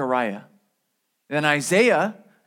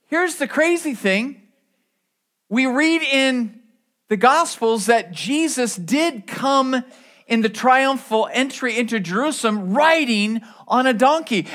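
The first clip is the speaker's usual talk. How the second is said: ordinary delivery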